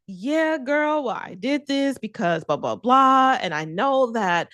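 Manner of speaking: a hint of a nervous friend over-explaining; rambling old self. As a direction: rattle off excuses like a people-pleaser. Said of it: "just this whole long response".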